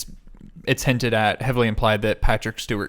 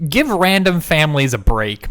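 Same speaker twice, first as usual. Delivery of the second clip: a louder, pleading "give random families a break"; emphatic plea; 3 semitones higher, 4 dB louder than usual. Real, not acted. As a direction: push the complaint out with feeling. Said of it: "venting about the film".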